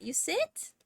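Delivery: high questioning coax to the cat; pet talk. Real, not acted. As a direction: gently ask the cat to sit. Coaxing cat to sit.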